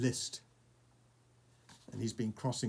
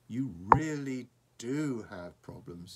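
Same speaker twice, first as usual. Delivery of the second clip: awed; 6 dB louder than usual. Acted. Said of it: "in an awed voice".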